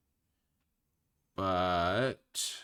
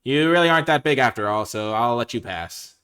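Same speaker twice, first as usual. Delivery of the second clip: troll relenting; 4 semitones higher, 14 dB louder, slower than usual. Acted. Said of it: "And the troll said".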